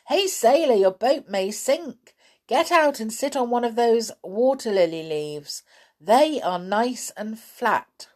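lifted clown voice calling out; calling a warning. Acted. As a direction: hail him urgently, then advise. Clown calls warning across pond.

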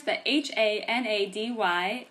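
letters H A N A D Y read back one by one; spelling it out. Shown as a demonstration. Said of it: "I'll write it in the description".

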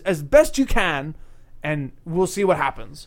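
lightly imitated British talk-show host; James Corden. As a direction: set up the game in a British presenter's accent. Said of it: "in his British accent".

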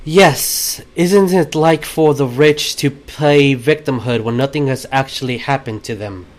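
calm. Acted. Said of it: "she will very calmly say".

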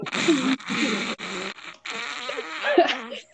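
real stifled giggling fit; helpless laughter interrupting the reading; laughing. Real, not acted. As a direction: break up laughing mid-read. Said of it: "Sorry for laughing".

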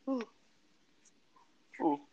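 a big tired yawn. Real, not acted. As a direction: let out a long sleepy yawn. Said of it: "Sorry for yawning".

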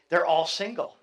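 chuckling through the quote; amused retelling with a laugh; laughing punchline. Retold or imitated. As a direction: let a laugh slip into the punchline. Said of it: "I thought that was funny".

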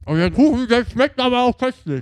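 high, loud over-the-top delight; hammed-up praise. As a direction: gush like in a commercial. Exaggerated praise of the cake.

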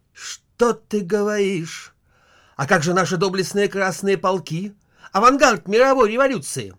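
high, loud mock alarm; wife hears Kiev is threatened, hammed-up shock. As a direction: gasp it out in hammed-up dismay. Wife shocked at war news.

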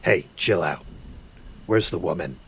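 lightly growled Batman impression; a hint of gruff Batman. Player interrogating the goblin, mock Batman growl. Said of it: "Is he just Batman".

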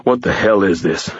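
out of breath, shocked; panting. A narrator's reading. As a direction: gasp it out, winded.

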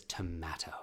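low whispered, solemn dad; dad's insistence. Retold or imitated. Father correcting child's pronunciation, hushed insistence. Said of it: "It says".

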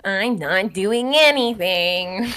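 slow, unruffled denial; calm denial. Retold or imitated. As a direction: draw it out, keeping composed. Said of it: "Meredith stays calm".

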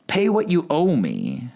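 a choking creditor's slow menacing order; harsh demand. Acted. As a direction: squeeze each word out like a threat. Servant choking his debtor.

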